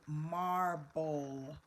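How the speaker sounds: MARBLE drawn out as MAR-BOWL; syllable by syllable. Shown as a demonstration. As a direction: stretch both syllables of MARBLE evenly. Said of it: "say the syllables".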